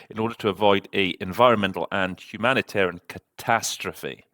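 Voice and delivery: catastrophe given extra weight at the end; stress on catastrophe. Shown as a demonstration. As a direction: lean into "catastrophe" for extra oomph. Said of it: "I really put some emphasis into the word catastrophe".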